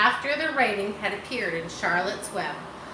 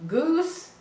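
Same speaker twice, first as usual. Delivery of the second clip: calling out; 9 semitones higher, 5 dB louder than usual. Acted. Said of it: "called Charlotte".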